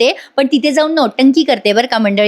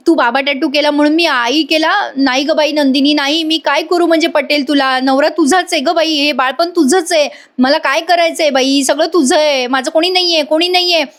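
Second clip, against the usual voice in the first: mildly hammed-up self-pity, pitched higher; emotional blackmail; 4 semitones higher than usual. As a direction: play the wronged martyr, lightly. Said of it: "emotional blackmail करते".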